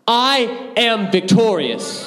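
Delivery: slow, punchy victory shout; triumphant shout. Shown as a demonstration. Preacher urging the youth to roar it like orc slayers, slow triumphant shout. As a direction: shout it like you just killed an orc. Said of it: "Say it one more time like you just killed an orc".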